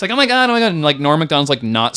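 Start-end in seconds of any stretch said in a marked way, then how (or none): 0.1-0.7 high-pitched mock fretting; raised, whining disbelief; Chris Kattan. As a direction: imitate a fussy, exasperated actor. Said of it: "And Chris Kattan's like".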